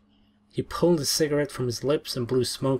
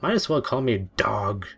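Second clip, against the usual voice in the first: growled; 3 dB louder than usual. Acted. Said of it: "Then he growled".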